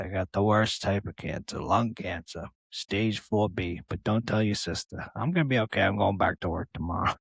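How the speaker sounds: a hint of a hushed, stoic father; father's quiet reassurance. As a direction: play dad downplaying it softly. Father voiced in story.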